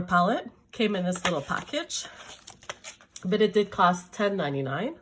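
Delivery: talking around a lozenge; mouth full. Real, not acted. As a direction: speak with candy in your mouth. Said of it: "I'll be talking with candy in my mouth".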